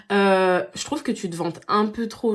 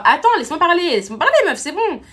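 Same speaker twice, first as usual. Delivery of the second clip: loud and high, cutting her off; snapping at a friend who interrupts; irritated; 7 semitones higher, 7 dB louder than usual. Acted. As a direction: raise your voice over the interruption.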